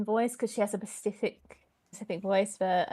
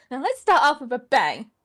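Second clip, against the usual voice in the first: Joker impression; 3 semitones higher, 9 dB louder than usual. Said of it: "This is Joker".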